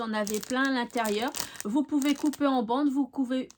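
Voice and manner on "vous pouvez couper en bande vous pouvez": tripping over the words and restarting; stumbling over words. Real, not acted. Crafter explains how to cut the rhinestone strips, stumbling over her words. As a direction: fumble the phrase, then break off. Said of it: "je bafouille".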